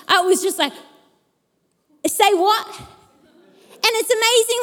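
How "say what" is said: genuine surprise. Retold or imitated. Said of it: "It was so genuine".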